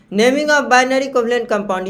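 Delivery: heading spoken slowly and evenly; slow dictation. Shown as a demonstration. Teacher dictating the heading again to the class, slowly. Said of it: "ध्यान से देखिएगा".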